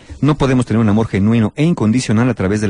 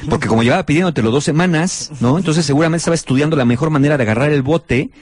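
sarcastic thanks. Retold or imitated. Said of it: "el sarcasmo tampoco ayuda".

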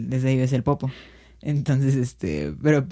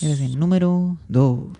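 Dross voice; slower than usual. Retold or imitated. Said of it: "Como Dross".

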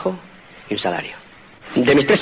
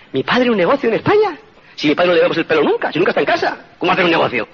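put-on incredulous teen; 2 semitones higher than usual. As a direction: echo it back in mock disbelief. Son scoffs at the idea. (el hijo adolescente repite la pregunta, incrédulo y burlón)

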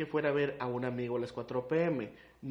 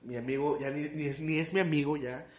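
calmarla. Retold or imitated. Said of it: "yo le digo".

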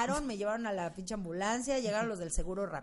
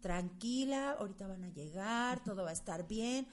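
soft, reassuring herself; calm self-talk; 6 dB quieter than usual. Retold or imitated. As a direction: gently talk yourself down. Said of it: "yo trabajando con mi yo interior".

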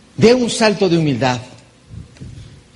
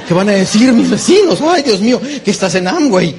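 mock gossip alarm; 3 semitones higher, 4 dB louder than usual. Imitating worried neighbor talk.

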